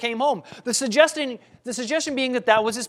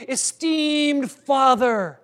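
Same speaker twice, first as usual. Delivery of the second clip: respectful son; 5 dB louder than usual. Retold or imitated. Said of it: "We might expect this boy to say".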